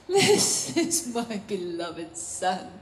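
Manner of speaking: low, slow, hushed declaration; God pleased with Son. Acted. God speaks of his Son before any miracles, low and pleased. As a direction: savour each word in a put-on fatherly voice. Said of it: "It's why he could say of the Son".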